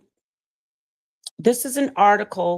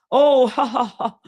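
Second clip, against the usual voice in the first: mocking critics; 4 semitones higher than usual. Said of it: "Don't let everybody tell you".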